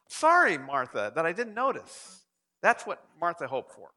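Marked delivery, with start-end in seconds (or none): 0.1-2.2 effusive apology. Acted. Imagined Jesus turning back to Martha, effusive apology. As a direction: overdo the sorry, as if mortified.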